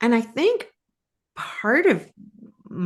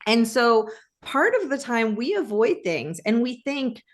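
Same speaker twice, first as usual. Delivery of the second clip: ordinary talk, nothing marked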